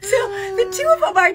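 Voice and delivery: slow, high, through laughter; laughing. Real, not acted. About the hopeless knitting, laughing. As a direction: dissolve into laughter on it.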